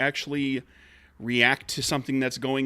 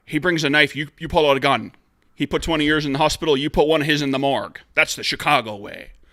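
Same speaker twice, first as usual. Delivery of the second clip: put-on loud, raised Irish cop accent; 6 dB louder than usual. Quoting a movie line about the Chicago way: Sean Connery's Irish cop accent. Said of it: "let's see if I can do the accent".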